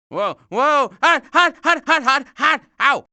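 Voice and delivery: quick pained yelps of hot; hopping yelps from a burn. Acted. Touching something hot.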